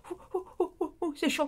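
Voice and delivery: mock flamingo yelping ouh on a hot floor; voicing the flamingo. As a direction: play a flamingo hopping off hot ground. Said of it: "Vous savez pourquoi je dis que le sol est chaud".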